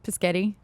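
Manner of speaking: "Pischetti" as "piss-ketty", asked softly with a rise; mispronounced spaghetti. Retold or imitated. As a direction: imitate someone getting spaghetti wrong as "Pischetti". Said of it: "Someone couldn't say".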